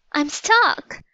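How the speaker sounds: high, panicked cry; trapped in pumice and scared. A narrator's reading. Annie to Jack, stuck in pumice, a high panicked cry. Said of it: "cried Annie".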